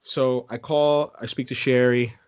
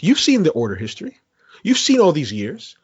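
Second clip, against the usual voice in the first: pushy, louder retold threat, pitch climbing; mock threatening; 5 semitones higher, 3 dB louder than usual. Caller retelling how he threatened the Best Buy agent, pushy and louder. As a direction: lean on the agent like an entitled customer. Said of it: "I started threatening".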